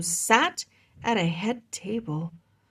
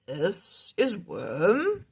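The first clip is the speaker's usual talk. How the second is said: slow wizard voice; much slower than usual. Acted. Griffith introduces dragon, slow, far.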